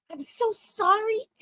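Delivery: high, slow, drawn-out apology; strained apology. Retold or imitated. Comic struggling to get up, apologizing in a high voice. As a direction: lift and stretch the apology.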